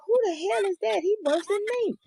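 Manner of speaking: high, startled mock outburst; loud mock yell. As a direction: act out a sudden loud voice.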